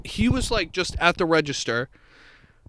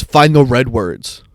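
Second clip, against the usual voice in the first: slow, louder, each word spelled out; deadpan instruction; 4 semitones lower, 7 dB louder, slower than usual. Retold or imitated. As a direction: lay it out slowly like talking to a child. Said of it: "he goes".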